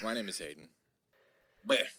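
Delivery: low, listless, unenthused delivery with zero excitement. Mimicking a friend who talks flat even when excited: imitating monotone talk. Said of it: "very monotone talk".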